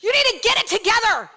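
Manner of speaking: a hint of a bossy midwife, fast; stern midwife. Midwife ordering the mother to focus, lightly stern. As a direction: snap her to attention, lightly voiced. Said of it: "And Jennifer just goes".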